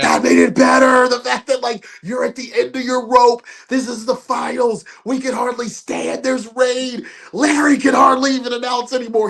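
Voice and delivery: worked-up retold enthusiasm; insistent praise. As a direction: argue it excitedly, voice pushed up. Acts out Schlack's insistent praise.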